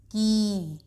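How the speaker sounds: की with the ii held long; stretched long ii. Shown as a demonstration. Teacher demonstrating the long ii sound, stretched. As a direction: draw out की, leaning on the long ii. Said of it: "थोड़ा सा खींच के बोलते हैं".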